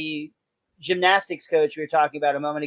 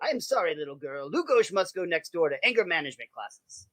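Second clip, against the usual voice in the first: put-on softer, lightly done German accent; bad German accent; 6 dB quieter than usual. Coach apologizing to Lisa in a soft German accent. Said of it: "do a bad German access, accent".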